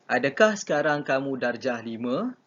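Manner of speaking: asked as a clear question on "Adakah sekarang kamu darjah lima"; question intonation. Shown as a demonstration. Teacher demonstrating a question sentence, question intonation. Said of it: "itu ayat soal".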